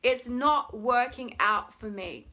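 loud, slow whining complaint; whining into the emotion; whiny. Shown as a demonstration. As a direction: drag the words out in a whine. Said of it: "in a very whiny voice".

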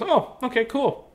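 high, airy phone reply; quoted client. Retold or imitated. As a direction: imitate her polite brush-off. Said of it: "And she goes".

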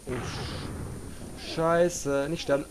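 panicked cursing. Real, not acted. Dying in game, panic.

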